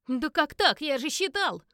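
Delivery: loud indignant outburst. Acted. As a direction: blurt it out, stunned and cheated. Edward loses at cards. (громкий возмущённый возглас)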